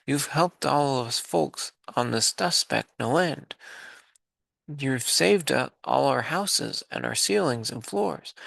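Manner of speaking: tiny speck voice. Acted. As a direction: pipe it up like someone tiny. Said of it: "came the voice".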